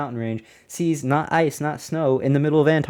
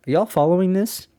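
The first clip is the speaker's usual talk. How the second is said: amazed; 6 semitones higher than usual. Real, not acted. Checks in with listeners, amazed.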